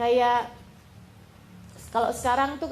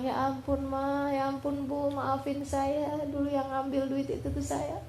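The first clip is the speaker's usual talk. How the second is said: imitated tearful confession; 3 semitones higher, 4 dB quieter than usual. Crying child confessing to mother about the money, mildly tearful. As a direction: act out a child softly begging forgiveness. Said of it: "anaknya nangis".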